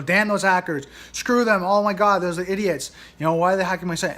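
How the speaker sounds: imitating an owner cursing the hackers, hammed-up; frustrated rant. Website owner venting at the hackers, mock angry rant. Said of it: "get so frustrated and so mad".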